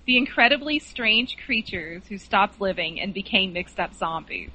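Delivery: slow, clear repeat. Shown as a demonstration. Guest repeats the film title for the host, slowly. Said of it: "give us the title again slowly".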